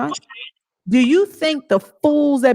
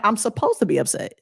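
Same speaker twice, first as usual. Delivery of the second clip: mocking retort; 2 semitones higher than usual. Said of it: "I'm like".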